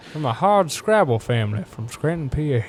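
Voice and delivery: a light put-on Biden voice; folksy old senator, lightly done; Biden impression. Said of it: "My Biden impression".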